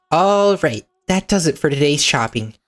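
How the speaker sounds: put-on a sunny young girl on an outing; cheerful girl voice. Pauline heads to the park, cheerful and high.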